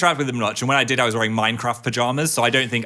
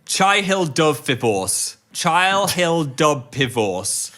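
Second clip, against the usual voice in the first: "Chai Hill Dove" in slow, separated words, slightly higher; sounded out slowly; 4 semitones higher, slower than usual. Shown as a demonstration.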